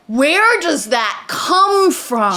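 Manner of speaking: slow, stretched-out question; exasperated disbelief. Real, not acted. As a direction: drag out each word in bafflement. Exasperated at the plot.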